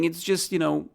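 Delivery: ordinary talk, nothing marked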